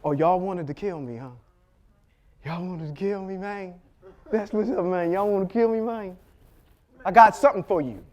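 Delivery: sly, taunting Joseph with a hint of menace; lightly voiced vindictive taunt. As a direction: gloat over the brothers who wanted him dead. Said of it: "a little bit of a vindictive streak".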